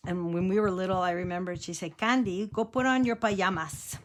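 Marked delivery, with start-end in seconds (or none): 1.9-4.0 lightly imitated Spanish-accented grandmother; grandma's Mexican accent. Grandma sends child to bed, light Mexican accent. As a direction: Mexican accent, "pajamas" as pa-YA-mas. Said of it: "She had a very heavy accent too".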